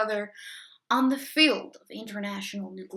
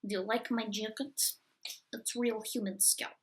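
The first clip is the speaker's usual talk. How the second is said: sinister; 8 dB quieter than usual. Acted. Sinister villain aside, quiet.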